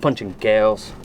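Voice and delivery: low, gruff cowpuncher mutter; gruff puncher delivery. Shown as a demonstration. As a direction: toss it off like a hard cowhand. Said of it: "say it different than normal people".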